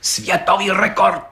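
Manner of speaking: ceremonious repetition; solemnly. A narrator's reading. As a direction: pronounce it like a grand announcement. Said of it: "opakoval četník Hejda slavnostně".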